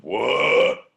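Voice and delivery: loud startled what; shocked lion; lion's outraged what. Acted. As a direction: bark it out in disbelief. Lion reacts to insult.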